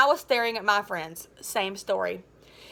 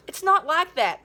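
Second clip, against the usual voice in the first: pleading; 5 semitones higher than usual. Acted. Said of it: "I pleaded".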